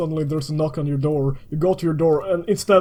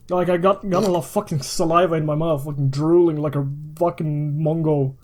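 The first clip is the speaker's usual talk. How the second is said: ordinary delivery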